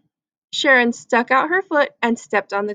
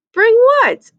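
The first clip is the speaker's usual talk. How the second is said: feigned innocence; 11 semitones higher, 6 dB louder than usual. Acted.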